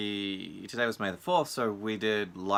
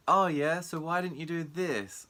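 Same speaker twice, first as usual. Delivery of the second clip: mock pushy voice; 9 semitones higher than usual.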